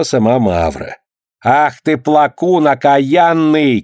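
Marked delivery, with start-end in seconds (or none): 1.5-3.8 scolding shout. Acted. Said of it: "кричала толстая баба".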